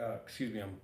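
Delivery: recovering, slightly hoarse voice; talking through a fading hoarseness. Real, not acted. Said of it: "just getting over losing my voice".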